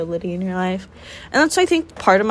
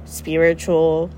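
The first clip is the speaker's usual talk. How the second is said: formal speech; slower than usual. Acted. Mock grand closing statement.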